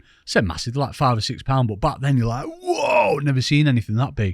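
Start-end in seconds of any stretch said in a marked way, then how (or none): 2.5-4.3 amazed. Retold or imitated. Retold boyhood amazement at fish.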